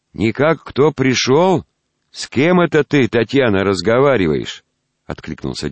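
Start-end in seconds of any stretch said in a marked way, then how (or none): 0.1-4.6 put-on quavering old grandfather calling out; very old man.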